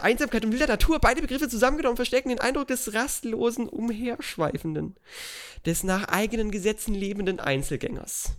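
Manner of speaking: solemn textbook reading aloud; formal reading. Acted. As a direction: read like a study guide. Reads study guide aloud.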